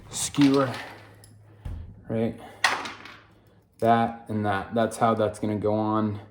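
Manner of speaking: half-hearted George Bush imitation; a hint of a Texan president explaining the bike; George Bush impression. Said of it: "That was actually George Bush".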